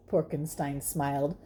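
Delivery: ordinary delivery, nothing marked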